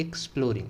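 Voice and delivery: "एक्सप्लोरिंग" with the opening sound of एग्जाम; pronunciation demo. Shown as a demonstration. Teacher answering how exploring is said, careful pronunciation demo. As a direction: say "एक्सप्लोरिंग" starting with a short "iks". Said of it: "कैसे बोलेंगे?".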